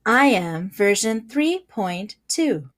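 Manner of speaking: slow, flat machine voice; robot voice. Acted. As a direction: speak like a voice assistant. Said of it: "I really like your robot voice".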